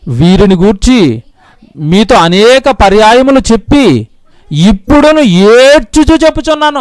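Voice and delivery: slow solemn verse from Philippians; slow scripture reading. Acted. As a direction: read the verse word by word. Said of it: "reads Paul's verse slowly".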